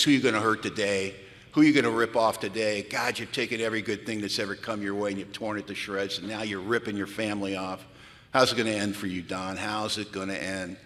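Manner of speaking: accusing inner voice. Retold or imitated. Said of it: "talking to me in my voice in my head".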